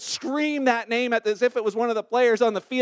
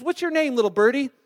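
higher, lightly put-on pet-talk voice; 5 semitones higher, 3 dB louder than usual. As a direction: lift it lightly, as if to a bird. Burglar talking to pet parrot.

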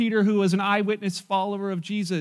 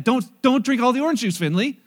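imitating a grandmother's firmer, raised voice; a little louder; 4 semitones higher, 4 dB louder than usual. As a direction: repeat the warning higher and louder. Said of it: "Her voice gets a little bit louder".

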